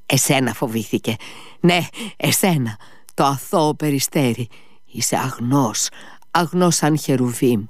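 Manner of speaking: high, feverish, soaring then whispering; delirious rambling. A narrator's reading. Ivan rambling at his brother in fever, high delirious voice.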